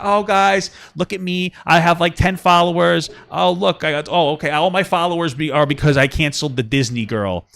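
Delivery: lightly voiced smug TikToker; a hint of a bragging influencer talking to her followers; mocking TikToker. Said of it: "but to go on TikTok".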